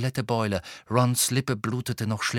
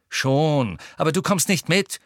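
louder, heated objection; angry; 5 semitones higher, 5 dB louder than usual. A narrator's reading. Ron barring Ginny from coming, angry. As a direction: forbid it hotly. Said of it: "sagte Ron zornig".

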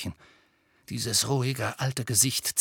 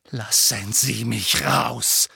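insistent demand; 4 dB louder, slower than usual. Acted. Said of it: "sagte Harry abermals".

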